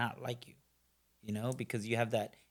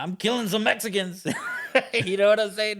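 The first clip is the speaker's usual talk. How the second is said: higher and louder, laughing through the words; real laugh breaking into the line; 9 semitones higher, 6 dB louder than usual. Real, not acted. Laughs at his own war remark.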